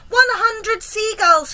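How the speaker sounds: slow, high, loud announcement; shout. A narrator's reading. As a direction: shout the tally, stretching each word. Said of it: "he shouted".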